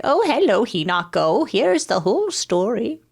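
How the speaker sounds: high, lilting mock mom voice; mock neutral-accent mom. Streamer mimicking a game character's mom, mock neutral-accent voice. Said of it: "her mom's just like".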